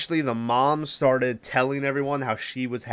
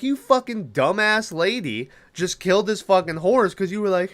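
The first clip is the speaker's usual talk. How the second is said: mock angry rant; 6 semitones higher than usual. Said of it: "I was so pissed off at this lady".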